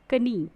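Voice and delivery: knee said as "कनी", K sounded with a short vowel before N; K pronounced. Shown as a demonstration. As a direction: voice the K in "कनी", two syllables. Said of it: "ये wrong pronunciation हो जाएगा".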